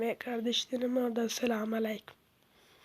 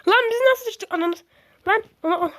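loud outburst; 9 semitones higher, 8 dB louder than usual. Real, not acted. Falling in game.

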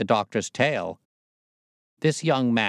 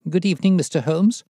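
high, loud nervous greeting; jangled nerves; 9 semitones higher, 6 dB louder than usual. A narrator's reading. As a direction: greet him in a pitched-up, jittery voice. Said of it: "as well as his voice testified to his jangled nerves".

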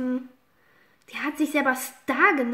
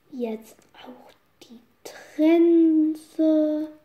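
whisper; much slower than usual. Acted. Horse scene, hushed.

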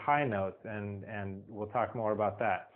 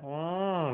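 NG hum; 5 semitones higher than usual. Shown as a demonstration. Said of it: "that N G sound".

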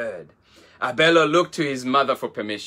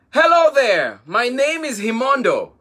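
high, bubbly little hippo with a laugh in it; high cheerful hippo calf, laughing hello; giggly baby hippo voice; 9 semitones higher, 5 dB louder than usual. Acted. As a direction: greet them like a playful baby hippo. Baby hippo introduces herself.

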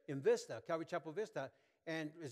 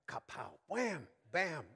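imitated smacking sounds; 3 semitones higher, slower than usual.

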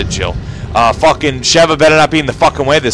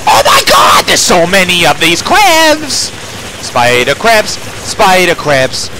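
hammed-up panic; 6 semitones higher than usual. Real, not acted. Player swarmed by spider crabs, hammed-up panic. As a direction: cry out in over-the-top alarm, dragging the words.

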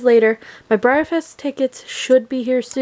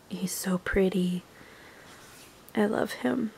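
much softer, almost breathed; soft admiring whisper; 2 semitones lower, 11 dB quieter than usual. Real, not acted. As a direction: murmur it in admiration.

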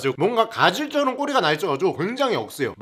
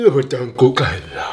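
put-on drunk slurring; 8 semitones lower, much slower than usual. Drunk girlfriend slurring, retold.

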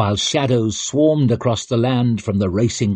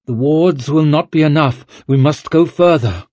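resolute witch; 5 semitones higher, 5 dB louder than usual. Acted. Witch decides on drastic treatment.

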